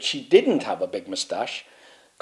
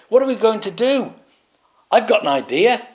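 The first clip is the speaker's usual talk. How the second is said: panicked knights; 10 semitones higher, 5 dB louder than usual. Acted. Knights panic, then a plan.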